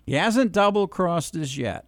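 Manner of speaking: "yet" leaned on with a slight lift at the end; stress on yet. Real, not acted. Caller on radio stresses that Trump hasn't crossed them yet. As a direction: land hard on the final word "yet". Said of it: "let me emphasize the word yet".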